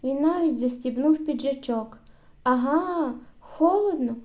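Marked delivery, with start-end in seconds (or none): 2.4-4.1 gloating. Acted. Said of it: "злорадно закричав Семенець".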